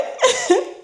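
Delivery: short very high laugh; bright falling giggle; high squeal of laughter. Real, not acted. Laugh after confession.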